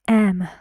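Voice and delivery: strong, clear M; M said strongly, as in Emma; stressed first syllable. Shown as a demonstration. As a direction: hit M firmly, as the stressed syllable. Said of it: "very, um, strongly".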